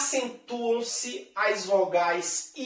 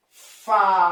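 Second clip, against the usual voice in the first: Faísca with the í hit hard and loud; Faísca said loud, stress on the i; stressed syllable; 2 semitones lower, 8 dB louder than usual. Shown as a demonstration. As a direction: punch the í in Faísca. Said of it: "Perceba a palavra faísca".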